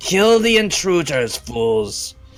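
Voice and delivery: booming, high-pitched, forceful voice echoing as in cavern. Game master voices the worm speaker calling through the cavern, booming worm speaker voice. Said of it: "this voice of this worm speaker booming through the cavern".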